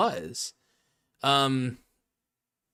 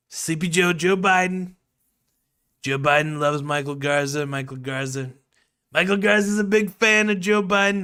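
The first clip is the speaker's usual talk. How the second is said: Trump impression; 2 semitones higher, 4 dB louder than usual. Streamer ranting about Michael Garza as Trump. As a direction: rant like Trump about Biden. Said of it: "my Trump impression".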